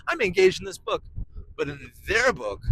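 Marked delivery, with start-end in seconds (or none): 0.1-1.0 hyped listener. Retold or imitated. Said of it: "you're like".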